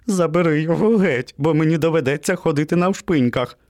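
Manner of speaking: high, pleading panic; frightened squeal. A narrator's reading. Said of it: "вирискнув песик". (перелякано благаючи)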